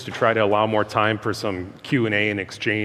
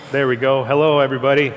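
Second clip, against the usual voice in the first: through loud speakers; 2 semitones higher, 4 dB louder than usual. Real, not acted. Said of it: "is this on?".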